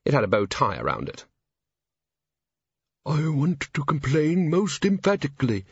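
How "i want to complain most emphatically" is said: tiny, higher indignant speck of dust; shrill little voice. Acted. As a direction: squeak out a prim complaint. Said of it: "said the dust in a shrill little voice".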